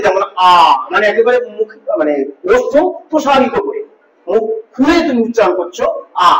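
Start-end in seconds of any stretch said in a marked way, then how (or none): 0.5-0.5 আ sung out open and full-throated; full-voiced আ. Shown as a demonstration. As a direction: let আ ring out fully. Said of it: "উদাত্ত কণ্ঠে".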